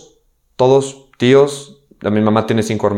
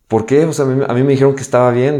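higher, quick, disbelieving retort; bewildered protest; 5 semitones higher than usual. Retold or imitated. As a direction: retell a confused protest, pitched up and hurried. Retold shock at being told goodbye.

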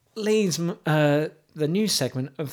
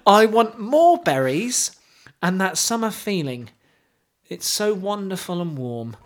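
mock poetry recital; 2 semitones higher than usual. Host reading a singer's lyrics at open mic, mock solemn. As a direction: read it like a grave poem. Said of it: "like a poetry recital".

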